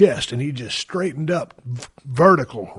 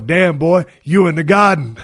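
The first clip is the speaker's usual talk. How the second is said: put-on Virginia accent; 3 semitones higher, 7 dB louder than usual. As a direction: retell the ref's line in his accent. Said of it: "the Virginia accent".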